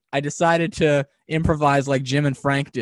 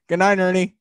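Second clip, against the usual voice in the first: Bert voice; 5 semitones higher, 4 dB louder than usual. Retold or imitated. Ernie and Bert blooper.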